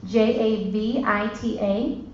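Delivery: slow, each letter separate; spelled out letter by letter. Shown as a demonstration. Spelling Javita for the audience, slow and separate letters. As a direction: spell it out slowly for the room. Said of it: "write the word Javita".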